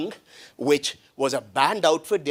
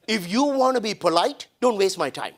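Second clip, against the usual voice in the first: higher-pitched mock telling-off; retold yell; 5 semitones higher than usual. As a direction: re-enact yelling at the group, without full volume. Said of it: "I yelled at them".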